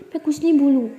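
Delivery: high, loud brushing off; loud protest. Acted. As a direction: cut her off, chill out. Daughter brushing off mother.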